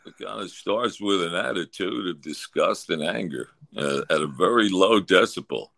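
low, disgusted monotone grumble; a hint of the grumpy broadcaster; Larry Andersen monotone. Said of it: "the monotone is perfect".

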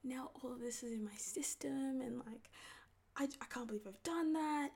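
panicked self. Retold or imitated. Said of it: "I was like ... cried ... breakdown".

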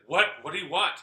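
high, loud demand; imitated scream. Retelling mom screaming out in the night, imitated high shout. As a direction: shout it like the startled mother. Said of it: "I hear my mom scream".

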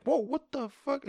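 high, drawn-out shocked yelp; mock the stunned reaction, pitch leaping up; incredulous outburst, stretched out. Retelling the dude's shocked reaction.

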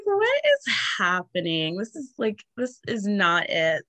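slow, drawn-out retold dismay; hammed-up appalled reaction; mock disbelief. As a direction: stretch the words in exaggerated disbelief. Acting out own appalled reaction.

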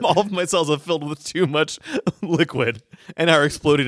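laughing. Acted. Voicing dying character.

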